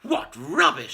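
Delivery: put-on high, loud sneering old woman; old grandma mocking George; scornful crone yell. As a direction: scoff at the boy. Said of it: "she yelled".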